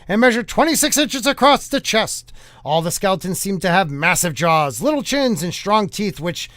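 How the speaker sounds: put-on brisk old-time newscaster; lightly played newsreel announcer; 1950s news voice. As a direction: report it like a vintage bulletin. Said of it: "read it in a nineteen fifties news style voice".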